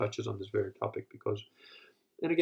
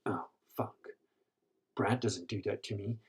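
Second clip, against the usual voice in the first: deflated aside; 7 dB quieter than usual. Acted. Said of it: "Now Jennifer is like".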